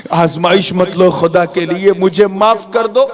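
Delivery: high, mock-tearful plea, rising; tearful begging. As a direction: plead like a youth starting to cry. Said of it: "नौजवान रोने लगा". (रोती-सी ऊँची मिन्नत)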